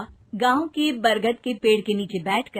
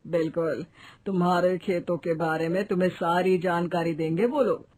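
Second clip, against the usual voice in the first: lower, steady reassurance; calm village elder's assurance; reassuring headman; 5 semitones lower than usual. Acted. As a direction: reassure a worried farmer, pitched down. Sarpanch reassures the worried farmer.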